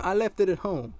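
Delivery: put-on high, loud boy's excuse; imitated kid. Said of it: "And he".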